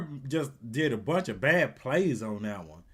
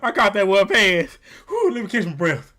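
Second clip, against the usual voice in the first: mock winded player; 5 dB louder than usual. Mocking a winded player, amid laughter.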